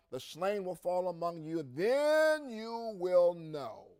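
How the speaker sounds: scripture reading. Acted. Preacher reading Ezekiel aloud to congregation, proclaiming with force.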